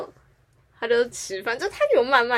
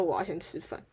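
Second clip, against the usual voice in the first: put-on sulky kid; 4 semitones lower, 10 dB quieter than usual. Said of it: "脸很臭".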